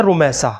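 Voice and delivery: رمیسہ as "ru-may-sa" with a Saad S; رمیسہ clearly as "ru-may-sa"; correct pronunciation. Shown as a demonstration. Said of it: "وہ سواد کے ساتھ ہے".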